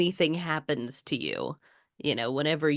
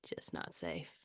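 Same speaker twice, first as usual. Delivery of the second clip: quiet spooky; 12 semitones lower, 20 dB quieter than usual. Pretend. Spooky catchphrase chant.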